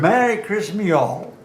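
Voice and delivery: put-on mild Southern American accent, rising end; hint of a Southern American drawl. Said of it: "in a Southern American accent".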